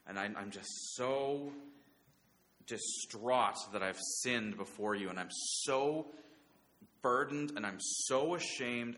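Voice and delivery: restrained anguish, leaning on each "so"; preacher's mild acting of a burdened penitent; anguished crying out. David confessing his sin to God, in understated anguish. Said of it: "he's crying out and he's just saying".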